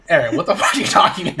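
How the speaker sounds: exasperated. Retold or imitated. GM exasperated at sleepy player.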